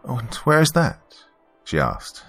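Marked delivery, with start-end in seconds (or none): 0.1-1.0 high British voice, lightly amused; snickering British woman. A narrator's reading. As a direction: ask in a British accent, a touch of amusement.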